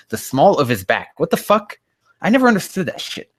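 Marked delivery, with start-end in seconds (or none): 1.2-3.3 baffled outburst. Real, not acted. Baffled by "small of his back.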